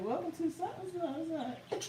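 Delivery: quick phone greeting. Retold or imitated. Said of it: "She said it so fast".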